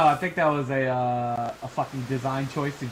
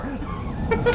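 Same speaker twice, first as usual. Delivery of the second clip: squeaky exclaim. Real, not acted. Pointing out which boss.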